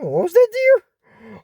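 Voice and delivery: high, slow, sugary queen asking; sweet queen voice. Retold or imitated. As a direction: play the gracious queen, lifting high.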